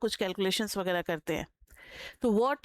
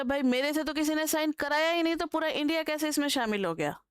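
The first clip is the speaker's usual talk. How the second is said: higher-pitched puzzled protest; mock surprise; 3 semitones higher than usual. Teacher voicing citizens surprised at the treaty, mock surprise. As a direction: play the surprised citizen, mildly. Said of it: "हम लोग surprised हो गए".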